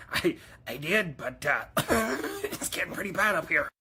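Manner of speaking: halting words between coughs; coughing on smoke. Acted. Smoker explaining the bad air up here, coughing. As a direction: stammer and cough through the excuse.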